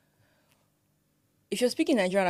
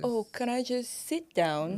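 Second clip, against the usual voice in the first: actor's line; 6 semitones higher, slower than usual. Retold or imitated. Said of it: "When they're saying".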